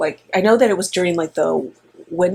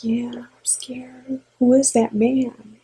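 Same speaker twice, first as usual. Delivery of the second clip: put-on scared toddler; 5 semitones higher, slower than usual. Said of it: "He was like".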